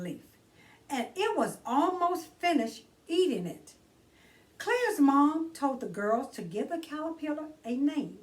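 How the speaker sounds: put-on bright read-aloud for children; gentle children's book narration; storybook reading. A narrator's reading. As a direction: read it like story time for kids. Reads picture book aloud.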